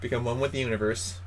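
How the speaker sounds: low, soft, calming delivery; mock meditation guide. Co-host helps partner envision food, soft mock-guru voice. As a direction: guide him softly into a trance.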